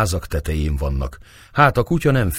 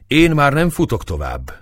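higher, determined declaration; resolute; 9 semitones higher, 4 dB louder than usual. A narrator's reading. Mekcsei tells his companions he will run no further, resolute. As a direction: dig in and refuse to go on. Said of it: "mondta Mekcsei elszántan".

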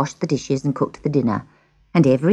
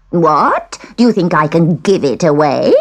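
put-on louder, affronted old peddler; indignant witch; 5 dB louder than usual. Witch refuses the girl's offer, loud and indignant. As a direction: scoff loudly as the witch.

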